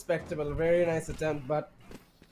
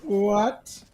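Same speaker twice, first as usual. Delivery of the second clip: shocked; 4 semitones higher, 6 dB louder than usual. Real, not acted. Stunned casters react to play.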